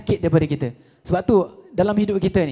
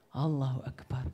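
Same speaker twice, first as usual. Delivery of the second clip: lower, soft exclamation; hushed Allahu Akbar; 8 semitones lower, 11 dB quieter than usual. Acted. Traveller finding a dead man, saying it low and soft. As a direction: breathe it out in quiet shock.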